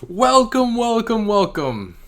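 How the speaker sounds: loud, high-pitched talk-show host welcome; John Oliver. Acted. Reaction host opens the video with an impression, high loud host voice. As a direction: belt out a high greeting, easing down at the end. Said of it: "do my best John Oliver impression".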